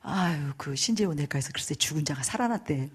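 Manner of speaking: softly voiced gossip. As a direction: imitate someone passing on a rumour, softly. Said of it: "입에서 입으로 개소문이 돌았는데".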